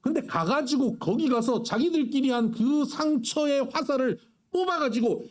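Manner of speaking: normal talking voice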